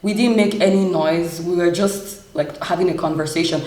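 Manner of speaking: calmly explaining, even and measured; retold calm explanation. Telling the man nobody made noise, retold calmly. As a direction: recount a calm, reasonable reply. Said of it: "I was telling the man very calmly".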